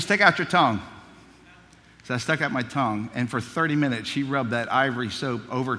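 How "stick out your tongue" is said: louder stern command; firmer order. Retold or imitated. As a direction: repeat the order more forcefully. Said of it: "She said".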